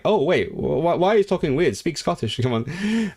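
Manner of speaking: half-laughing mock complaint, voice lifted; mock bewilderment. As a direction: act baffled and jokingly demand they fix it. Acting own reaction to non-Scottish accents.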